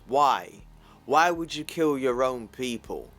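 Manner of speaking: loud, furious accusation; angry demand. Acted. Hulk grabs a soldier and yells at him, angry. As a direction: shout it into his face.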